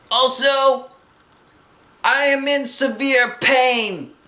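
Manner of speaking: high, slow cry of pain; shouted. A narrator's reading. Girl squeezed by swim ring to parents, shouting. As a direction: wail it loud, word by word. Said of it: "I shouted".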